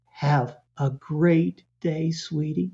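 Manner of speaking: slow, easy, unbothered farewell; calm brief goodbye. Retold or imitated. Confident parent calmly saying goodbye to the kid, slow and relaxed. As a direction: say it lightly and move on. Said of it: "they say something like this".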